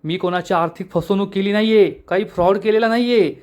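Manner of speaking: understated annoyed retort; a touch of exasperated self-defence; mildly irritated. Acted. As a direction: protest with mild irritation, building toward the end. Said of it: "Anvay चिडून म्हणतो".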